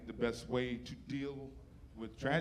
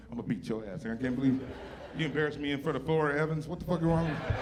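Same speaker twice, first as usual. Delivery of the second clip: a half-mocked scolding mother, rising and faster; mock threatening mom; 3 dB louder, faster than usual. Angry mother scolding her son after the restaurant, mock-threatening. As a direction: rant like a fed-up mom in the car. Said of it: "my mom's still threatening me".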